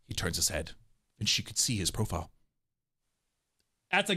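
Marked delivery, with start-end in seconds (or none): 0.1-2.3 low, soft narrator voice; story narration. A narrator's reading. Narrator describing him turning his head, hushed storytelling. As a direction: drop low and read it softly.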